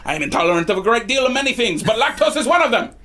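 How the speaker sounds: lightly voiced man protesting his innocence; indignant large man. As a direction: argue back in a lightly put-on character voice. Game master voices arguing man.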